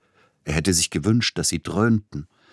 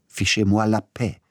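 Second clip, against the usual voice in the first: higher, louder French outburst; shouting in French; 5 semitones higher, 4 dB louder than usual. Acted. Peter Iljitsch yelling at his agent, loud French. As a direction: throw the French words at him. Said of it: "schrie Peter Iljitsch ihn an".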